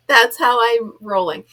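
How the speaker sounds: ordinary talk, nothing marked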